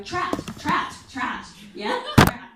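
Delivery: voice of God. Retold or imitated. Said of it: "God just starts going".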